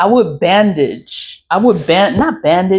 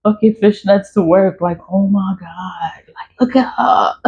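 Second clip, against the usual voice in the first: higher, catty gossip voice, lightly mocked; mocking gossipy coworkers; 4 semitones higher than usual. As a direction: imitate coworkers gasping over her outfit, half-laughing. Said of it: "they was always talking like".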